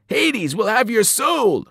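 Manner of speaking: slow, high, eerie shriek; a monster swearing damnation; menacing Fury. A narrator's reading. Mrs Dodds cursing Percy from the floor, slow eerie shriek. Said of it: "she promised".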